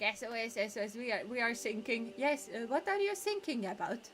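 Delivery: mock German accent for a radio joke; lightly German, th turned into s; attempted German accent. Player acting out an SOS sinking joke, comic German accent. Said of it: "give them a German accent".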